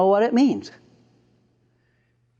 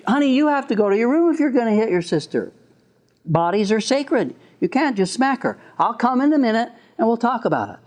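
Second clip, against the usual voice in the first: patient, explaining tone, brisk; gentle parent; 3 semitones higher than usual. Shown as a demonstration. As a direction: calmly reason with the child. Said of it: "That's much better than".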